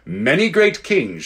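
slow, scornful queen; contemptuous. Acted. The Queen scorns Diggory's warning, slow and contemptuous. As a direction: look down on the boy with a slow sneer. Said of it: "The Queen gave a contemptuous smile".

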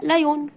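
لايون with a long "oo" sounded; the common mistaken لايون; wrong pronunciation. Shown as a demonstration. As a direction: say "LIE-yoon", vowel fully voiced. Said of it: "النطق غلط".

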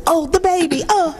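high-pitched mock fretting over a baby; mock emotional outburst. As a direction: wail it like someone overcome, hammed up. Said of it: "first thing come out is our emotions".

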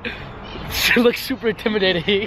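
tag. Real, not acted. Laughing while retelling.

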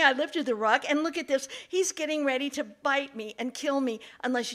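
high, loud, fast begging; frantic man pleading with the fox. Acted. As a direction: rush the story out, desperate for help. Man begs fox for help.

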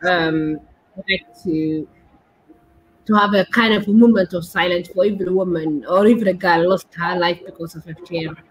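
low, heavy and subdued, a real sorrow; saddened. Real, not acted. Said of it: "it is sad".

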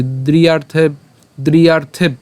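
"দ্রিয়ার্থে" closed with a bh at the end; closed pronunciation. Shown as a demonstration. Teacher pronouncing up to bh, "দ্রিয়ার্থে" as driyartheb. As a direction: carry "দ্রিয়ার্থে" through to a final b sound. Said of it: "ভ পর্যন্ত আমরা উচ্চারণ করছি".

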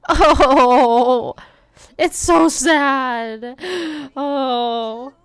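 slow, drawn-out mock pity; slow hammed-up sympathy; mock sad. Real, not acted. Crying baby in game.

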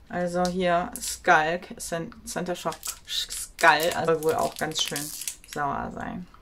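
talking while chewing gum; words around a wad of gum. Real, not acted. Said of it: "Erstmal kaue ich mal ein bisschen Kaugummi". (mit Kaugummi im Mund)

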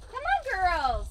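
calling hens. Real, not acted.

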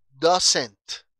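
"doesn't" fuerte, con la T final bien marcada; T final pronunciada. Shown as a demonstration. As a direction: modela "doesn't" para la clase, rematando la T. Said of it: "estoy pronunciando la T al final". ("doesn't" enfático, con T final nítida)

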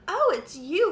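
high, loud delighted greeting, no real laugh; amused Frog. A narrator's reading. Frog greeting friends on the riverbank, amused. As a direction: greet a friend with pleased surprise. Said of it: "laughed Frog".

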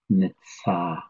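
nitsa said slowly, falling at the end; Navajo word nitsa. Shown as a demonstration. Teacher to students, demonstrating nitsa. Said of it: "that means big".

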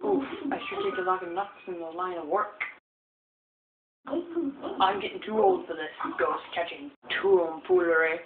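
lightly voiced old professor; creaky old man, grumbling. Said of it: "That's my old man voice".

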